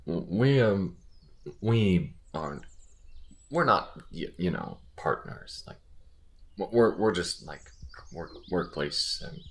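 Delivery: awkward, halting stammer; embarrassed and hesitant, tripping over words; flustered. Acted. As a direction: fumble for words, trail into a sigh. Flustered explaining of relationship with partner.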